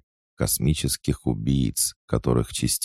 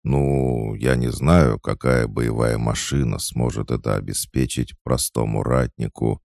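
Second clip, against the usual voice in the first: hesitant. Acted. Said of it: "неуверенно ответил он".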